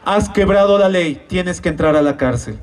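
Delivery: gently grave, a touch of heartache; loving, pained father. Acted. Father judge sentencing his own son, with pained love. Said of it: "Con todo el amor y con todo el dolor de su corazón me dice".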